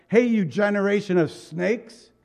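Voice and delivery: letting them have it. Shown as a demonstration. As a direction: hit them hard with the insult. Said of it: "He let him have it".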